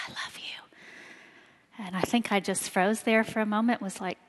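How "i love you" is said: soft breathy whisper of I love you. Retold or imitated. Husband whispering to her during a movie, hushed whisper. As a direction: whisper it close to the ear, slowly. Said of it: "he just kinda whispered in my ear".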